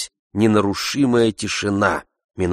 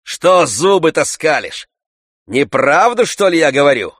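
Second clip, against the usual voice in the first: higher, louder indignant retort; Tarantyev's challenge; 7 semitones higher, 6 dB louder than usual. A narrator's reading. Tarantyev to laughing Oblomov, loud indignant retort. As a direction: snap back at the laughing host. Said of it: "сказал Тарантьев".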